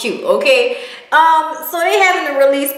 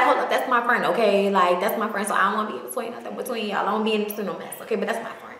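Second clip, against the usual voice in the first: soft defensive voice; 4 semitones lower, 9 dB quieter, faster than usual. Retold or imitated. Nikki defending her friend, quoted.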